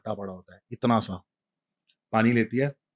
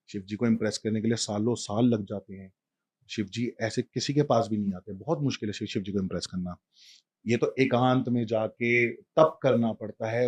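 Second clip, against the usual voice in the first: gentle soothing. Retold or imitated. Mother soothes child on lap.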